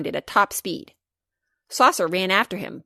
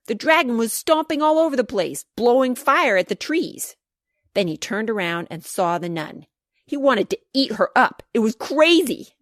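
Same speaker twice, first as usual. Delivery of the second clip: excited storytelling; 4 semitones higher, 4 dB louder than usual. Acted. Child narrates dragon rampage excitedly.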